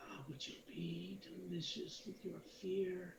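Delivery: high, sepulchral, tomb-like whisper. Narrator voices her after she growls at you, in a sepulchral whisper. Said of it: "in this sepulchral whisper".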